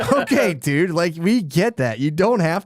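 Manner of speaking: half-laughing mock exasperation at the author; laughing disbelief. Real, not acted. Laughing mock exasperation at the book's overshare. Mocking the narrator's weird line.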